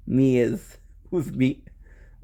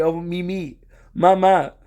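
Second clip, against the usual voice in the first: lightly acted doting pet talk, pitched up; imitated cat cooing; 5 semitones higher, 4 dB louder than usual. The speaker petting her cat and saying its names, doting imitation. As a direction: coo over the cat, getting louder. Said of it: "petting and saying".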